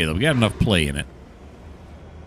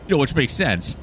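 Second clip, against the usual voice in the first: mildly sarcastic, pitched higher; dry sarcasm in a raised pitch; 5 semitones higher than usual. Real, not acted. Player grumbling at the game about a switch, sarcastic. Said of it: "I'm being sarcastic".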